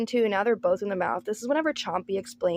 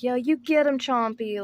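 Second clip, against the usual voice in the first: mock-excited cheer, higher and louder; 5 semitones higher, 4 dB louder than usual. Family cheering Chompy on, excitedly. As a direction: egg him on with a raised, louder voice. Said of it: "they're all excited".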